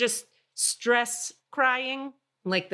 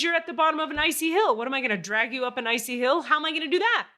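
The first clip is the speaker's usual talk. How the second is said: retold exasperated refusal; 6 semitones higher, 3 dB louder, faster than usual. Retold tow guy refusing to help.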